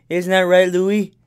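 put-on sing-song good boy; pet baby talk. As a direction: praise the cat like a baby.

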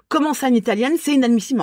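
high-pitched incredulous protest; acted indignation. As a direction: protest in mock outrage. Acts out her indignant protest.

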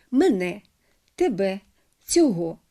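мене, тебе, цього stressed on the last syllable; second-syllable stress. Shown as a demonstration. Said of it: "мають наголос на другому". (наголос на другому складі: менЕ, тебЕ, цьогО)

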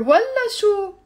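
والله شو high and loud, falling; scornful refusal. Shown as a demonstration. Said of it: "I'm saying, "Of course not".

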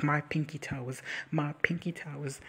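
slow, stretched-out imitation; drawn-out mock quote. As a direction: linger on each word, mimicking him. Mimicking a character's odd phrase.

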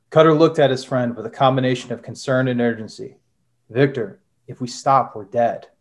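steady dramatic read-aloud of a spy thriller; story narration. A narrator's reading. Author reading his novel to the library audience, dramatic narration. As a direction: read the chapter like an audiobook narrator.

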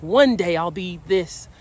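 lightly voiced wishful dreamer; mock dreamy daydreamer. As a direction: mimic someone always putting life off. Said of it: "It's like".

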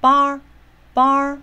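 bar 念得高、响、拉长; 把 bar 往上提，单独念; 重音往上高. Shown as a demonstration. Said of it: "重音节往上高". (高而响地强调 bar)

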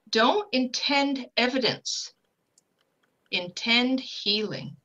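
slow, deliberate delivery with wide pauses; quoted spirit message. Retold or imitated. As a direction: hand down a key teaching slowly. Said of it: "what he said was".

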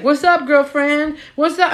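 high, cheery mock greeting from her period; mock cheerful period. Her period popping in each month, high chirpy greeting. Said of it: "she just coming every month like".

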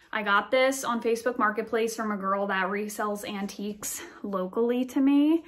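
slightly winded from climbing; breathless after a climb; out of breath. Real, not acted. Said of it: "I'm out of breath".

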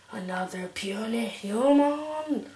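booming frost giant. Acted. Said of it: "I need a voice for that guy".

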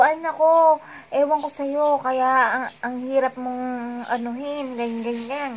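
mock exasperated scolding; exasperated anger. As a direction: throw up your hands at him, loudly. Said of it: "Galit na ako".

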